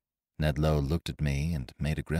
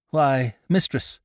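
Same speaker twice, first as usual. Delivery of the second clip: higher, slow, measured interjection; cold voice; 8 semitones higher, 4 dB louder, slower than usual. A narrator's reading. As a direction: break in coolly, drawn out. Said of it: "broke in the cold voice of David Spry".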